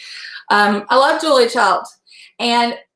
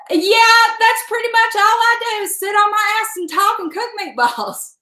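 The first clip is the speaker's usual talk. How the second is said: sarcastic retort; 9 semitones higher than usual. Retold or imitated. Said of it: "I was like".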